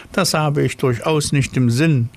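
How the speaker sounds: high, self-important snail. Acted. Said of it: "sagte die Schnecke".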